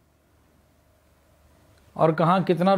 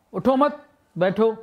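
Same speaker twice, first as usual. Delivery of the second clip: اٹھو مت high and rising, a break, then بیٹھو; pause after مت; 4 semitones higher than usual. Shown as a demonstration. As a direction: lift اٹھو مت as one, stop, then بیٹھو. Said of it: "تو سب چیزوں میں فرق آ جاتا ہے".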